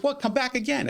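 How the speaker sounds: retold exasperation. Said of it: "I said".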